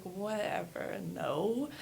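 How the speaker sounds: mildly scornful teenage brush-off, retold; dismissive eye-roll. Retelling her younger self brushing off the yoga teacher, dismissive. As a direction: wave it off with a rolled-eye 'no'. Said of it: "rolled my eyes".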